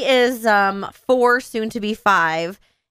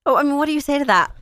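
flustered; 4 semitones higher, much faster than usual. Retold or imitated. Teacher's flustered thought.

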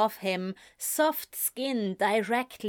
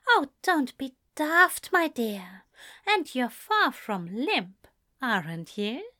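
Ezra, fond scolding; 3 semitones higher than usual. Acted.

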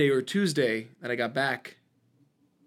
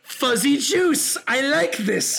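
higher, slow, laughing; mock contentment; 9 semitones higher, 4 dB louder, much slower than usual. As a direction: savor it with a mock smile. Mocking friend's contentment.

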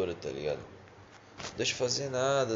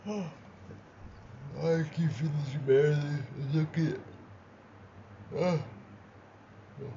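nodding off; 3 semitones higher, much slower than usual. Real, not acted. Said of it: "que sono".

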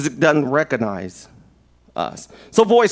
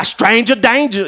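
raised excited chant; excited yell; 5 semitones higher than usual. Acted. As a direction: go crazy with it. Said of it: "go crazy with it".

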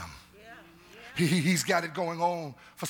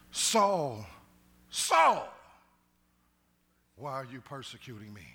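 divine call; 3 semitones lower than usual. Pretend. Voice from heaven calling Saul, then hushed.

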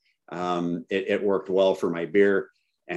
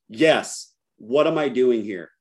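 retold mild panic, slightly higher; mildly freaking out; 4 semitones higher, slower than usual. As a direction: act out a bewildered, rattled demand. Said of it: "I'm freaking out".

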